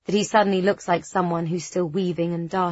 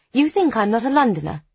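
trembling, louder and hurt; 5 semitones higher, 5 dB louder than usual. A narrator's reading. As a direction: voice trembling on the edge of tears. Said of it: "I say in a trembling voice".

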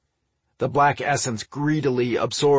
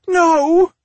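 high, loud cry of protest; anguished cry; 11 dB louder than usual. A narrator's reading. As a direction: cry out in alarm, pitch soaring. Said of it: "Magica cried".

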